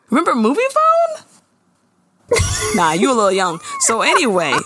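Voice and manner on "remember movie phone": high excited question. Real, not acted. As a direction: squeal it with glee.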